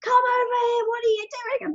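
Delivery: mock impatient husband, pitched high. Husband summoning his wife away, mock impatient. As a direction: call her back impatiently. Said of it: "her husband goes".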